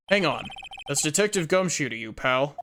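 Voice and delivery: lightly voiced tough-guy cop; a hint of a brusque detective warning off a stranger; gruff detective. Player voices Detective Gumshoe.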